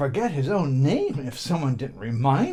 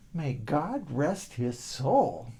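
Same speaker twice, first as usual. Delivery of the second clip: solemn blessing; 4 dB quieter, much slower than usual. Acted. Boy blesses dead fish.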